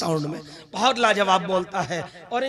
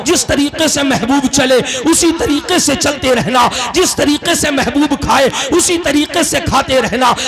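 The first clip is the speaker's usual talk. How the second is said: steady, projected sermon delivery; preaching; 3 semitones higher, 9 dB louder than usual. Acted. Preacher retelling God's command to follow the beloved, rhythmic preaching. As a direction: build the refrain in rhythmic, parallel phrases.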